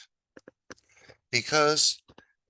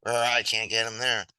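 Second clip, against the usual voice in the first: lion roaring; 6 dB louder than usual. Acted. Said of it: "it's like".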